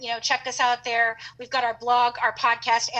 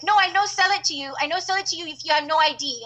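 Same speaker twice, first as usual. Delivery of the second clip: mock Asian-accented shopkeeper; imitating shop lady's accent; 4 semitones higher, faster than usual. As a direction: play the stubborn immigrant shopkeeper refusing the sale. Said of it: "And the lady's like".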